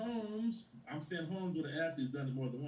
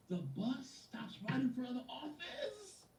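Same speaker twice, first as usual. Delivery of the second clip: tag; 5 semitones higher than usual. Acted. Acting out Jasmine's excited bus news.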